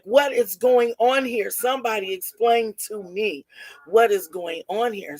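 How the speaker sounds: retold outraged mother demanding answers; mild mock outrage. Mother demanding an explanation at the hospital, mildly outraged. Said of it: "the mother is so outraged".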